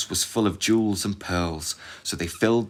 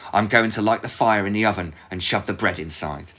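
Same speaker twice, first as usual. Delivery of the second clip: bossy witch; 3 semitones higher, 5 dB louder than usual. Acted. Witch continues orders.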